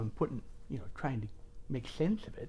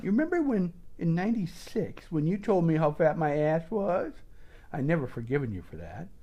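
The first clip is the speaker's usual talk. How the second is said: petty grudge; 3 semitones higher than usual. Acted. Mock phone call, petty grudge.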